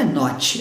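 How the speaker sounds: "not" with the final T released into a "chi"; "not" ending in an audible T. Shown as a demonstration. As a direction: say "not" letting the T escape. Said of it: "eu não solto, eu travo".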